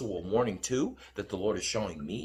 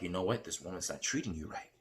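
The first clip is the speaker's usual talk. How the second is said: lightly voiced, softer Lord giving counsel; gently lowered voice, a hint of fatherly authority; 6 dB quieter than usual. The Lord warning his son about this woman, lightly voiced and hushed. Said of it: "And the Lord's like".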